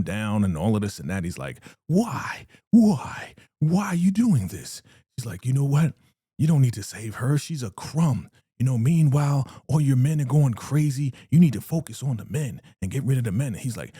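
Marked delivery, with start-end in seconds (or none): 1.9-4.8 very high, loud pained pleading; anguished cries. Retold or imitated. Leader being beaten down. 5.5-13.5 scheming woman. Retold or imitated. Ruth manipulating the leader.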